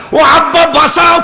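high, loud mock plea for rescue; wailing like a desperate parent; begging cry. Couple begging for help. (উঁচু গলায় নাটুকে আকুতি)

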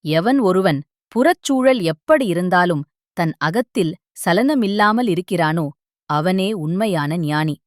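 slowing to a grave close; a hint of a solemn guru; deep wise words. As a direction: deliver the final wisdom with weight. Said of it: "குரு ஆழமாகத் தொடர்ந்தார்".

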